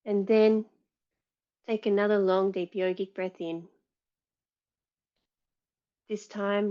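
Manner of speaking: calm meditation lead with long pauses; guided meditation. Real, not acted. Yoga teacher settling the class before practice, guided meditation. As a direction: guide them gently inward, leaving space after each instruction.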